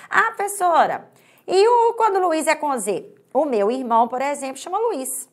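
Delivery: lightly voiced student asking the teacher.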